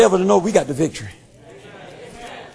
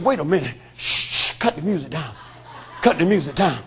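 softer, lower hushing of the party; hushing whisper; 6 semitones lower, 7 dB quieter than usual. Acted. Satan hushes his demons at the door, softer and lower. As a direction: shush them, cut the noise down.

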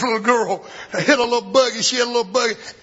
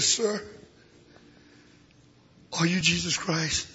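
tender question; 2 semitones lower than usual. Retold or imitated. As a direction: ask it gently, in wonder. Tender climax of story.

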